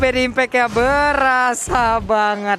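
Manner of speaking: stunned commentator. Real, not acted. Co-caster shocked by damage.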